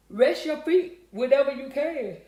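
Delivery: talking through a yawn; slow, stretched words swallowed by a yawn. Real, not acted. Tired streamer advising a viewer to rest, yawning. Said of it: "I don't know why I'm yawning".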